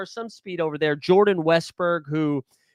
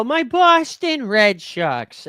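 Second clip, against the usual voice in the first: 1 excited; 7 semitones higher, 5 dB louder, much slower than usual. Acted. Hyping his own team.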